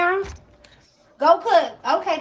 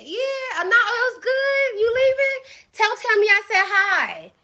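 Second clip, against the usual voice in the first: higher, pleading sweet voice; sugary coaxing; 5 semitones higher than usual. Pretend. Streamer sweetly begging Layla not to leave, higher pitch. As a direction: coax him to stay, all sugar.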